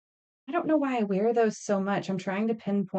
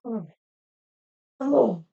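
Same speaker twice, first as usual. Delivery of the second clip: put-on sassy kid; 2 semitones higher than usual. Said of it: "throws so much attitude and is like".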